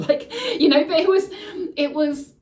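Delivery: a real laugh breaking through the words. Real, not acted. Laughs through own story.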